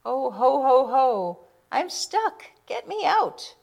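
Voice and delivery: high, loud ho ho and a stuck cry; a jolly man panicking in a chimney; stuck Santa. Acted. Santa stuck in the chimney calls for help, high and loud.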